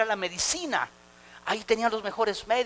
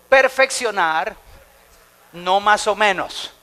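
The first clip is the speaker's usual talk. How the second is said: preacher leading a call and response; loud slow call; 9 dB louder, slower than usual. Shown as a demonstration. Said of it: "Diga conmigo".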